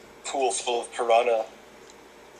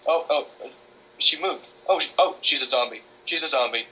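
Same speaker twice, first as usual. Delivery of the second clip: mock alarm. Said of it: "I thought to myself".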